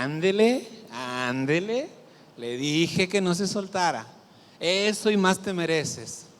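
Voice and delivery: mocking told-you-so scolding, drawn out; mock reproach. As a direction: rub it in like a smug parent. Dios imaginado regañando con burla. (Dios imaginado que regaña con burla: reproche burlón)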